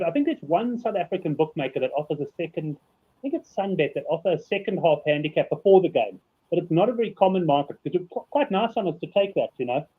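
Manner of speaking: slushy s from a loose tooth; lisping around a wobbly tooth; slurring. Real, not acted. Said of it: "If I sound like I'm slurring".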